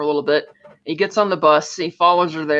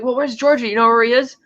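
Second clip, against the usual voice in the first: lightly voiced woman, pitched up; imitating eager woman; 6 semitones higher than usual. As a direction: ask it as her, high and curious. Voicing the woman's question.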